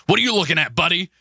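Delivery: high, tough-guy sun voice; angry sun voice. Pretend. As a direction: challenge them like an irritated sun.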